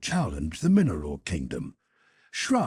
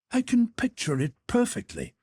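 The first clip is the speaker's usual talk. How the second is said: lightly voiced Conseil; 12 semitones higher than usual. Conseil's quoted reply.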